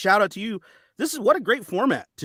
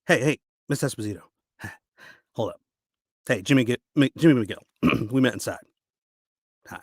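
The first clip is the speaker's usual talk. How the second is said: acted dramatic speech with heavy pauses; audition monologue; 5 semitones higher than usual. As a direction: urge them on bitterly, building in pitch and force.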